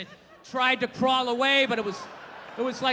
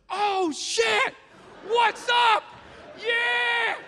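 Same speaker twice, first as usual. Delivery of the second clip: excited gorilla; 11 semitones higher, much slower than usual. Pretend. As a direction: play a pumped-up gorilla greeting its friend. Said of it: "just looks at her just like".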